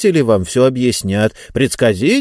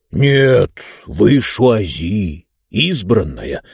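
slow, firm insistence; much slower than usual. Acted. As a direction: settle it with certainty. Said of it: "твёрдо сказал Мортор".

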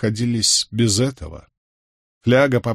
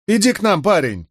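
raised, high-pitched friendly invitation; calling over; 10 semitones higher than usual. A narrator's reading. Village woman invites hesitant lad to the fire, calling out. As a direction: call the lad over to join you. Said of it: "позвала его женщина".

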